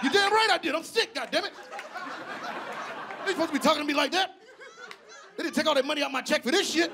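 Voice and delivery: high-pitched mock outrage; hammed-up indignant patient. Old patient argues back.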